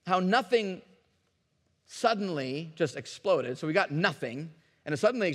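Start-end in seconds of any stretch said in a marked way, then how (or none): none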